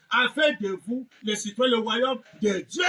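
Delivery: ordinary talk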